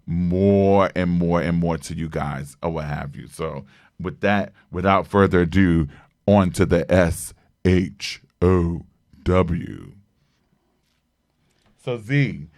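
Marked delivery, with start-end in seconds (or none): 6.3-9.9 slow spelled-out "S H O W". Real, not acted. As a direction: spell "S H O W" letter by letter, slowly. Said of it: "spelling it out".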